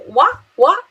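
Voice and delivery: sharp high blunt What What; rude what. Retold or imitated. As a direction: snap it like a rude reply. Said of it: "é um pouco mal educado".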